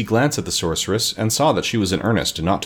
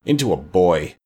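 low, grudging confession; witch's dark, low admission. A narrator's reading. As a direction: admit it in a lowered voice. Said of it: "said Mombi in a low tone".

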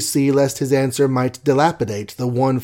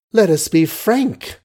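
higher, slow indignant echo; cried with a catch; 7 semitones higher, 4 dB louder, slower than usual. A narrator's reading. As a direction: throw the words back in a raised, hurt cry. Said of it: "cried, with a little catch in her voice".

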